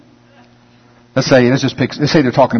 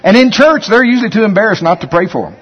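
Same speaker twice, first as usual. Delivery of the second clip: amused; 10 semitones higher, 3 dB louder than usual. Real, not acted. Laughing at own story.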